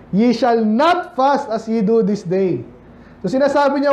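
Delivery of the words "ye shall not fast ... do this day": slow scripture reading. Acted. Reads scripture slowly.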